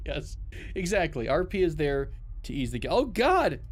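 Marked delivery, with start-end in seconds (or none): 2.9-3.6 high frantic yelps of go and no; panicked yelling. Real, not acted. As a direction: panic as the ship is hit, urging it on. Ship under attack, panicking.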